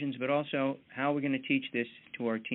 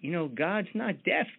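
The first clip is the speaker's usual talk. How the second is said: mild mock call up; 6 semitones higher than usual. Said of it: "kinda shouts up and says".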